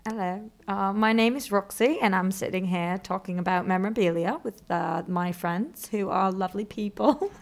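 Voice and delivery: put-on soft, hesitant British accent; a shy attempt at a British accent; mock-polite British accent, quietly. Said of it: "people are demanding a British accent".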